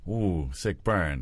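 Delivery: slow, low-key bystander's reaction; half-subconscious reaction. Shown as a demonstration. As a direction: let it slip out as if by reflex. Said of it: "subconsciously say".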